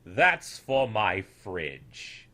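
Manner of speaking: put-on an old man proudly taking a child's drawing; beaming grandfatherly delight, drawn out slowly. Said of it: "The old one beamed bright and said".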